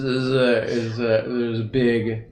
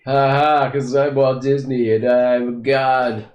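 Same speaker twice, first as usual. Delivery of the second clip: cocky Walt Disney; 3 semitones higher, 6 dB louder than usual. Retold or imitated. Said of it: "And they were like".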